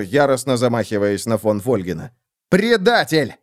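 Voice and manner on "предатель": higher angry shout. Acted. Von Volgen shouting back while striking. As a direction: hurl the word back. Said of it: "крикнул фон Фольген".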